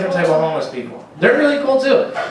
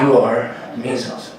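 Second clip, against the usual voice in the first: 1 deep voice, laughing; 5 semitones lower, slower than usual. Retold or imitated. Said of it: "He had a really deep voice".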